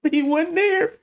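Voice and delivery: high, laughing through words. Real, not acted. Joking to friend about absent dad, laughing. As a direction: laugh it off as you say it.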